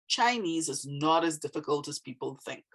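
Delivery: "Chinese is not as difficult as people think" stated with the tone going down; falling statement tone. Shown as a demonstration. Teacher showing how a statement's tone goes down, falling tone. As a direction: let "think" drop as a plain statement ends. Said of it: "My tone went down".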